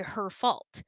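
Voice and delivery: usual speaking voice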